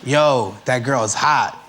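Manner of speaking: mock talk between homeboys. Shown as a demonstration. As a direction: say it casually, as if to your homeboys. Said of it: "You say that to your homeboys".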